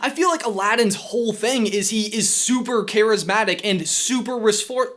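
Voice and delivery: energetic host delivery; presenter read. Acted. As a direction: drive through the script with punch. Reads scripted line to camera.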